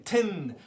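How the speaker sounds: tin with the N sound pushed through the nose; teacher demonstrating tin with a nasal N. Shown as a demonstration. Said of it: "you kind of pronounce it through your nose".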